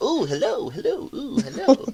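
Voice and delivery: creepy, very high, slow sing-song voice. Imitating another player's guardian character: imitating a creepy voice. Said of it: "he's doing the creepy, like".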